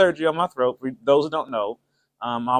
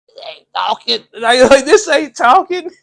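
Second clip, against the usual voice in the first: failed attempt at talking; 8 semitones higher, 6 dB louder than usual. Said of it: "just try to talk normal".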